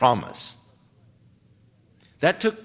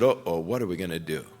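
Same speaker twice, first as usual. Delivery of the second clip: softer, lower, anxious servants murmuring; hushed worried whisper; 8 semitones lower, 5 dB quieter, faster than usual. Retold or imitated. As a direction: keep it low so the king won't hear. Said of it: "David heard them whispering".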